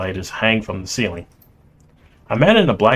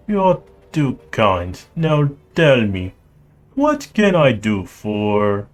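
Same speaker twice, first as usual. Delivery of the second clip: put-on Russian accent; slower than usual. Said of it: "I will try to do his accent".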